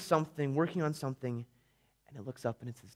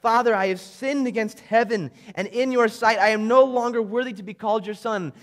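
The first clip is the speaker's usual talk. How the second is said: a touch of tearful pleading, fuller voice; tearful plea; 4 semitones higher, 5 dB louder than usual. Acted. The son to his father on his return, mildly tearful. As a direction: plead through tears, lightly played. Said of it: "through his tears and as he's sitting here crying".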